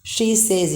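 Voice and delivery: SAYS as "saze", long vowel; wrong says. Shown as a demonstration. Teacher shows the mistake in she says, long-vowel "saze". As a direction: say "says" like "say" plus z. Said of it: "you don't say".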